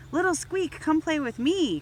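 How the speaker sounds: a toy ball eagerly calling to play; excited cry. A narrator's reading. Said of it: "cried the red rubber ball".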